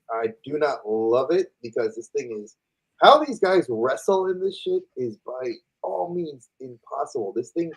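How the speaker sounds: talking with jaw locked by a tight mask. Real, not acted. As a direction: speak through a clamped jaw. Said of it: "my jaw is locked into place".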